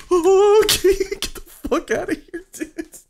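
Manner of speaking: high-pitched frightened outburst; panicked yelp. Real, not acted. Player telling monsters to get away, panicked yelp. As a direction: start loud, stay high and rattled.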